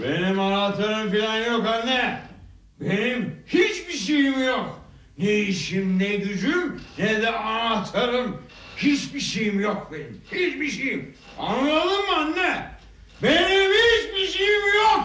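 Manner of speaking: put-on slow, drunken outcry, rising in pitch. Son answering his mother, yelling. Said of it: "Oğlum Kenan'ım bağırma gözünü seveyim".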